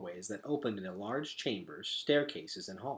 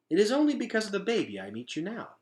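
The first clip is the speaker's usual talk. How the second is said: higher, gentle and shy; shy nanny voice; 10 semitones higher, 5 dB louder, faster than usual. Acted. Dulcet's voice.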